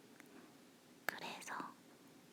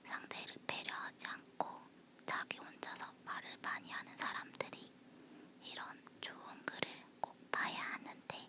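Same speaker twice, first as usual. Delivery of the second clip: breathy whisper close to the mic. Real, not acted. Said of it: "속닥거리는 목소리라서".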